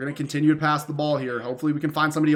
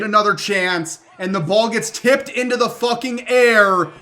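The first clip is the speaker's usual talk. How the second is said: louder and higher, cursing in disbelief; frustrated outburst; 4 semitones higher, 5 dB louder than usual. Real, not acted. Gamer watching his pass get tipped and picked, frustrated outburst. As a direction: vent at the game as it goes wrong.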